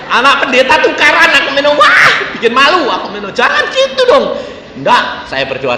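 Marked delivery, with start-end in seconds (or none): 0.1-4.3 high, loud, laughing retold complaint; mock the embarrassed father through laughter; laughing mock outrage. Retelling the parents' outrage, high and laughing.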